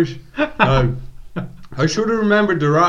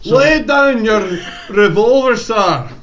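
put-on Irish accent; 2 semitones higher, 3 dB louder than usual. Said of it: "slightly Irish voice".

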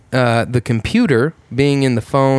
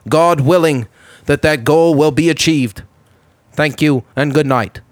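lightly voiced JFK speech cadence; a hint of Kennedy addressing the nation; JFK impression; 3 semitones higher than usual. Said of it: "J F K".

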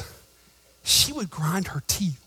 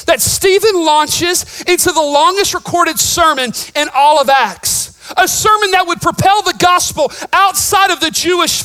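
higher and louder, shouting the point home; preaching at full force; 10 semitones higher, 10 dB louder than usual. Real, not acted. Pastor preaching to his church, full-force shout. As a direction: thunder it out to the congregation.

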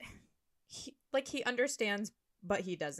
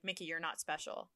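much softer deadpan put-down; quiet blunt aside; 4 semitones lower, 11 dB quieter than usual. Retold or imitated. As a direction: drop it softly, almost muttered. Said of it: "it's like".

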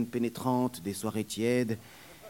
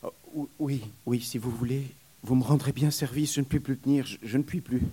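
broken voice; 3 semitones higher, faster than usual. Acted. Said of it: "d'une voix brisée".

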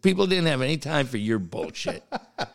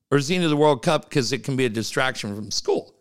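faster, lower, running past "into" to the excuse; quicker knowing alternative; 4 semitones lower, faster than usual. Retold or imitated. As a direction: rattle off the suspicious alternative, lower. Second, suspicious alternative question.

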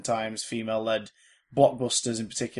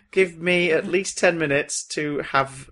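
tired Robert Downey Junior; 3 dB louder than usual. Retold or imitated. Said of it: "I'm Robert Downey Junior".

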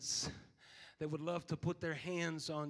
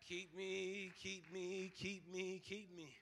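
softer, murmured plea repeated over and over; hushed prayer; 6 dB quieter, slower than usual. Acted. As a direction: drop right down and pray it to yourself. Soft repeated prayer after shouting.

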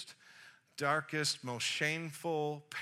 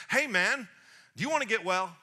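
loud, raised casual hail; punchy, higher-pitched greeting; calling out; 5 semitones higher, 7 dB louder than usual. Acted. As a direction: hail him across the crowd. Jesus hails the invalid.

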